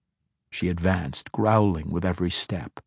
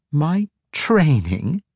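incredulous laugh; 7 semitones higher, slower than usual. A narrator's reading. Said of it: "with an incredulous laugh".

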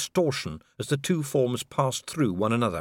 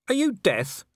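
high, alarmed question; startled; 9 semitones higher than usual. Acted. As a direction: gasp it out in alarm. Startled man in falling boat.

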